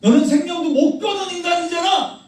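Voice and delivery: mock self-righteous believer's boast; mocking a proud believer. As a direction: sneer down at the one who can't give his life. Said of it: "이 얘기를 하는 거야".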